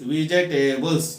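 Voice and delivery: "वेजिटेबल्स" measured out in four parts; syllable by syllable. Shown as a demonstration. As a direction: sound out वे-जि-टे-बल्स. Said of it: "four parts करके बोल रहे हैं". ("वेजिटेबल्स" चार हिस्सों में)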